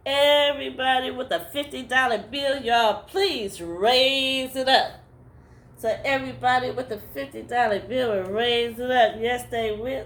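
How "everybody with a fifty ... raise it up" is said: a hint of a pulpit preacher asking for money; preacher's call. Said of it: "And then he'll go".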